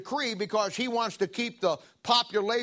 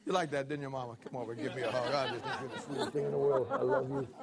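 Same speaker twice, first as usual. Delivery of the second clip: tender aside; 9 semitones lower, 6 dB quieter, faster than usual. Real, not acted. Preacher aside to his wife Mama.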